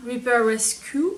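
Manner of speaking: "Repair Rescue" in a jokey English accent, little changed from her own; a light put-on English accent on the product name; self-mocking English accent. Shown as a demonstration. Vlogger reading a shampoo name aloud, in a mock English accent. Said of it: "avec mon super accent, euh, English".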